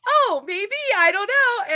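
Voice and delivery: giggly barista voice; light laughing reply. Retold or imitated.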